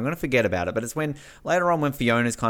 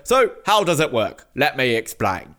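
Dicko host voice; 4 dB louder than usual. Retold or imitated. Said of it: "He's like".

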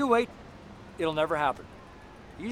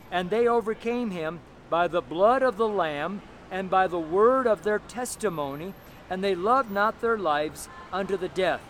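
slow, measured Bible reading; scripture reading; slower than usual. Shown as a demonstration. Preacher showing how to read a verse to a friend, scripture reading. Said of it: "it says".

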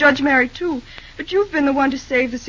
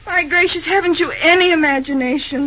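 fond exasperation; 3 semitones higher, 5 dB louder than usual. Acted. Teasing exasperation at dense Bill.

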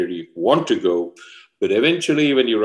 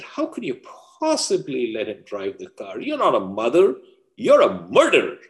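acted reproach, pitched up, with weighted pauses; accusing friend; 3 semitones higher than usual. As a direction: deliver a shocked accusation in a raised pitch. Friend accusing mother in story.

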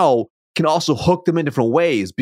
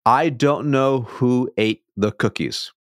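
I said first and strongest, slow; stress on I; slower than usual. Shown as a demonstration. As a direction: lean on I as if it wasn't me. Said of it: "It changes how the message is being perceived".

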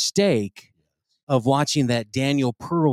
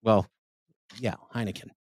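mock grave news read. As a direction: read it like dire breaking news. Reads news story gravely.

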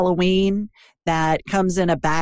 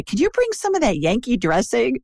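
higher-pitched imitation of pleading friends; friends' request; 5 semitones higher than usual. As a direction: lightly act out friends asking a favour. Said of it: "my friends always say".

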